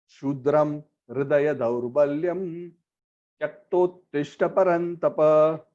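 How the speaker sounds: slow, measured Sanskrit chant; verse recitation. Acted. Preacher reciting Krishna's verse to the congregation, slow chant. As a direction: intone the verse slowly and reverently.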